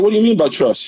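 baffled. Retold or imitated. Baffled follow-up question.

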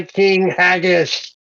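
slow, grand tendril voice; otherworldly summons. Acted. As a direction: summon him slowly, like a cosmic herald. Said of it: "Tendrils reach out ... and say".

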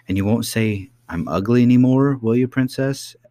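lightly voiced nurse, sulking a little; hurt old nurse. Nurse complains to princess.

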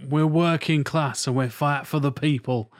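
put-on working-class northern accent; lightly put-on northern fighter for the people; northern English accent. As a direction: play a mock northern working man. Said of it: "give 'em a northern accent".

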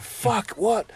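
high, sharp disbelief; shocked. Retold or imitated. Narrator hears the professor is his dad, shocked. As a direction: react in disbelief. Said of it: "I'm like".

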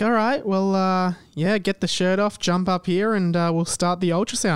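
breezy radiologist. Retold or imitated. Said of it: "she's just like".

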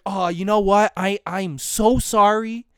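syrupy fake-sorry sarcasm; sarcastic apology. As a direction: overdo the apology to mock them. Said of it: "I will be very sarcastic".

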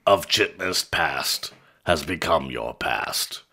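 slow fading ghostly whisper; spooky ghost voice. Acted. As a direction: drift away like a departing ghost. Ghost of Christmas past bit.

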